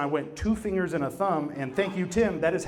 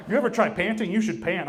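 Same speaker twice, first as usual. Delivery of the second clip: dog voice; 5 semitones higher, 5 dB louder than usual. Retold or imitated. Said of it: "he was like".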